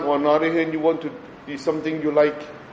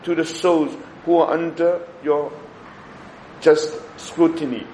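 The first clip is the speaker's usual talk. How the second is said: prayer reading; 2 semitones higher than usual. Acted. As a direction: read the prayer reverently. Prays the novena prayer.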